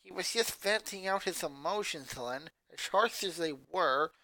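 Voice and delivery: quiet, measured counterpoint; Lisa arguing. A narrator's reading. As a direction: argue calmly, trying to defend him. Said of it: "Lisa argued".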